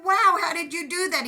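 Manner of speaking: high, loud amazed exclaim; delighted high wow; retold amazement. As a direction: gush like you just got a surprise gift. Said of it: "And I went".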